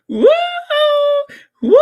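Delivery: delighted whoop amid laughter. Real, not acted. Gloating over the grand opening clip, whoop. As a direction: let out a gleeful woo.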